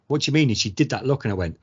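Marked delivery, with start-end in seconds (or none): 0.1-0.5 surprised. Retold or imitated. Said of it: "And I was like".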